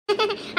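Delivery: a quick little laugh; short chuckle. Acted. Friend laughing off mother's worry about a fight, chuckling.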